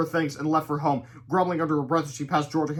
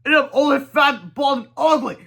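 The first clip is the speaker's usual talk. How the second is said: high, loud wailing dismay; high loud lament; dismayed cry; 10 semitones higher, 9 dB louder than usual. Acted. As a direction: wail at his reflection. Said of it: "cried the guy".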